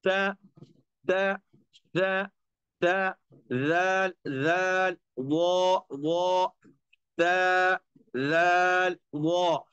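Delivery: ता राल वो slow, tongue tip on the teeth edge; letter sounds demo. Shown as a demonstration. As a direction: say ता राल वो one by one. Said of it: "इनके किनारे पे लगाना है". (ता, राल, वो अलग अलग)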